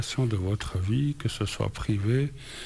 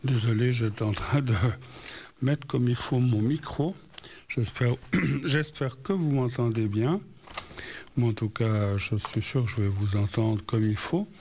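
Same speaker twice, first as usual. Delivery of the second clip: speaking with a numb, swollen mouth; numb from the dentist. Real, not acted. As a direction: talk through a numb cheek after anesthesia. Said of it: "ne vous étonnez pas si j'ai une drôle de voix ce soir".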